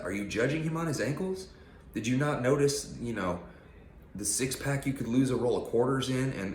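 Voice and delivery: indignant rant. Real, not acted. Ranting at trolls who mock his veins, indignant. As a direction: let the outrage climb.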